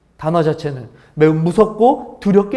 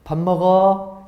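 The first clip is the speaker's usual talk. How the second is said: gentle invitation; much slower than usual. Shown as a demonstration. Pastor demonstrates a gentle 밥 먹어 to the congregation. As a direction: say 밥 먹어 gently like a loving parent. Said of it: "아주 이 부드럽고 상냥한 말이지 않습니까?".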